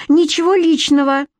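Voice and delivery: high-pitched, brisk dismissal; dismissive. A narrator's reading. Queen justifies herself to rival, dismissive.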